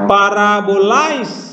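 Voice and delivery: parabolais, slow, pitch up on the i; accent demo; rising i. Shown as a demonstration. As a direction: lift the i in parabolais slowly. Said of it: "jadi yang naik adalah I-nya".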